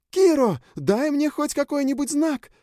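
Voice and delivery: very high desperate yell. A narrator's reading. Sjun keeps yelling at Kiro for a sign. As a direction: beg him loudly for a sign. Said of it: "продолжала орать Сьюн".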